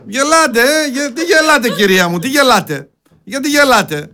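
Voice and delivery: high-pitched protest at the laughers; indignant scolding. Real, not acted. (αγανακτισμένη επίπληξη με ψηλή φωνή)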